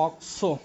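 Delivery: অক্সো split clearly as অক-সো; pronunciation of অক্সো. Shown as a demonstration. Teacher gives the suffix for attached ketones, sounded out. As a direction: sound out both parts of অক্সো. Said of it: "সেক্ষেত্রে উচ্চারণ হবে".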